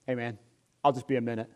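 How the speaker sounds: lightly voiced tall basketball player, low and casual; Roy Hibbert. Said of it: "He goes".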